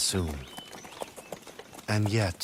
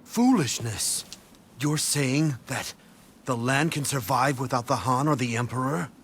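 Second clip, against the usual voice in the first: indignant rebuke; 4 semitones higher than usual. Acted. Strategist scolding his rival over the Emperor, indignant. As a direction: scold him for such a foolish idea.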